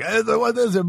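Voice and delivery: put-on French Canadian accent; imitated French Canadian accent. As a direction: toss out rapid faux French Canadian. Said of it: "he knows all this French".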